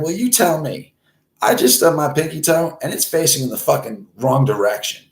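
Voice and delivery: high-pitched exasperated report; retold freaking out. Caller tells emergency operator about his toe, mock frantic. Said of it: "we're both fucking freaking out".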